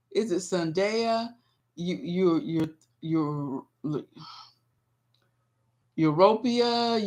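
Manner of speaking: ordinary talk, nothing marked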